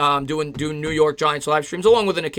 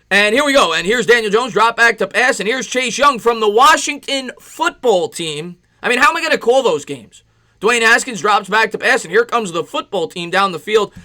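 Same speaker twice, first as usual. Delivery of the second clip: higher, louder broadcaster call of a pass play; mock football play-by-play; 4 semitones higher, 3 dB louder than usual. Streamer pretending to call a Giants game, broadcaster voice. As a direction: hype it up like a TV football announcer.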